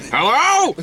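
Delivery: high-pitched mimicked "hello"; dry cleaner answering phone. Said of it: "like, a dry cleaning place".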